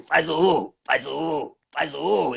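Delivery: dub actor redoing his boy character's line, lightly voiced; the boy's roar line. Shown as a demonstration. Dub actor recreating his character's line, lightly voiced. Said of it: "E aí eu fiz o".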